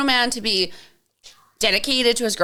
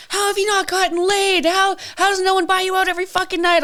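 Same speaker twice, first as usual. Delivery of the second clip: higher, amazed disbelief; a fan in disbelief, voice pitched higher; incredulous fan; 8 semitones higher than usual. Retold or imitated. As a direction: play him baffled she's still single. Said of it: "And he's just like".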